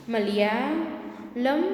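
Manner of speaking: મલયાલમ stretched out, rising at the end; slow drawn read. Shown as a demonstration. Teacher slowly reads મલયાલમ to young pupils. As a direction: spell out મલયાલમ slowly for the class. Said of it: "આગળથી વાંચો કે પાછળથી વાંચો".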